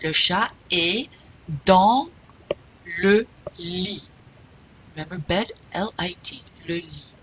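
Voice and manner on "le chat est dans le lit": "Le chat est dans le lit" slowly, word by word, pausing; loud, broken-up teacher's model of "Le chat est dans le lit"; slow practice model. Shown as a demonstration. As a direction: separate "est", "dans" and "le lit" with clear pauses. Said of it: "let's practice".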